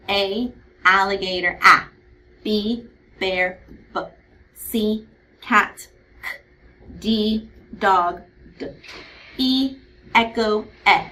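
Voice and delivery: each letter name, its keyword, then the isolated short sound of "A", "B", "C", "D", "E"; spaced chant from "A, alligator" to "E, echo", ending each set on the bare sound; teacher modelling "A, alligator, A" with clear pauses between items; letter-sound drill. Shown as a demonstration. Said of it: "remembering the sound that the letter makes".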